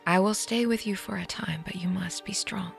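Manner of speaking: soft comforting whisper. Acted. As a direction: whisper strength into her. Aunt comforts grieving girl.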